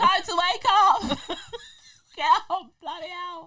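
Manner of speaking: yelling voice. Retelling how the kids get woken up: imitating own yelling. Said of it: "It'd be better than how I".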